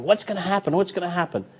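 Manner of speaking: high-pitched mock suspense; tense anticipation. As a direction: imitate an anxious spectator waiting for the reveal. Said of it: "you're tense because you're going".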